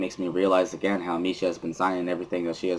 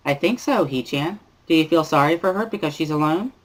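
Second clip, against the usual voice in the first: put-on bubbly cheerful girl; 9 semitones higher than usual. Misha cheering that the group is together again, high bubbly girl voice. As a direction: squeal it out like an overexcited classmate. Misha answering about Hanako.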